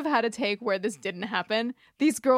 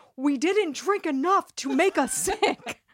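put-on, pitched-up, firm proclaiming tone; 5 semitones higher than usual. Recapping a scene where Scully answers a scream-whispered warning: Scully loudly proclaiming. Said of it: "Scully loudly proclaims".

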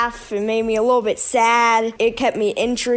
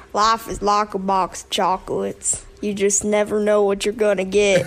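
Southern drawl, leaned into. Asked for Forrest Gump impressions, a speaker answers with a Forrest Gump impression. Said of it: "Any Forrest Gump impressions?".

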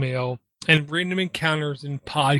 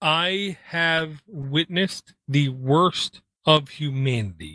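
very slow, deliberate, drawn out word by word. Contrasting himself with the listener, the speaker says this line really slow. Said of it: "saying that really slow".

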